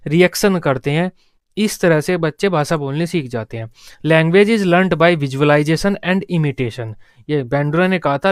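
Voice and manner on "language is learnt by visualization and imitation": very slow, each word set apart for note-taking; slow dictation. Shown as a demonstration. Teacher to class, dictating Bandura's line very slowly. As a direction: read it out slowly for students to copy.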